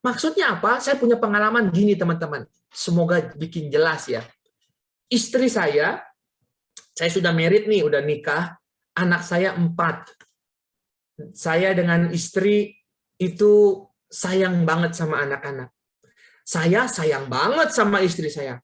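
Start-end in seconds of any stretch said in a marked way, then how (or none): none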